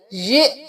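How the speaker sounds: "ये" cut short with a jolt on the hamza. Shown as a demonstration. Teacher spelling ya and hamza, "ये" with a jolt. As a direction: stop "ये" abruptly on a glottal catch. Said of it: "झटका देकर पढ़ेंगे".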